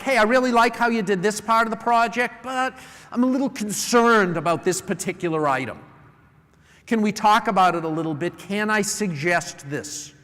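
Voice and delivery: friendly praise, then a gentle concern; constructive feedback demo. Shown as a demonstration. Manager gives an employee gentle, friendly feedback. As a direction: ease into the criticism kindly. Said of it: "Say something that they like".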